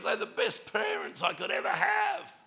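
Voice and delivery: imitating an upset girl's rising cry; retold distressed outburst. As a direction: let the quote climb into strained distress. Girl in distress, retold to congregation.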